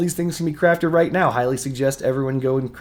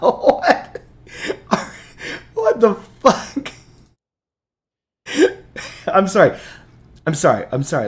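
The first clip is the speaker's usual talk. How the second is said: high-pitched talking through laughter; 6 semitones higher, 4 dB louder than usual. Reacting in disbelief to a game reward, laughing while talking. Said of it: "The reason why I'm laughing".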